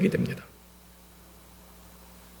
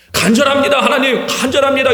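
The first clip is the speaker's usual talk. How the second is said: imitating an earnest plea, said a bit louder; eager mock plea; 4 semitones higher, 3 dB louder than usual. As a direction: act out an eager but hollow prayer. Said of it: "실제로 돌아보면 안 돼도 말아야 돼".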